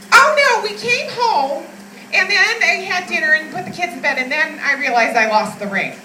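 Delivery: put-on high, loud rambling old mother; elderly mom voice. Mother explaining the lost ring to her daughter, high loud rambling.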